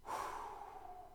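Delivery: long, soft exhale; quiet, weighty sigh; heavy sigh. Real, not acted. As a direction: sigh softly at a grim passage. Sighs after a grim verse.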